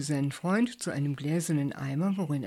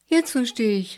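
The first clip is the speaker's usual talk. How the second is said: higher, louder eureka cry; exclaiming; 6 semitones higher, 6 dB louder than usual. A narrator's reading. Bert thinks he understands Julius, excited exclamation. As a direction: burst out with sudden insight. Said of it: "rief Bert".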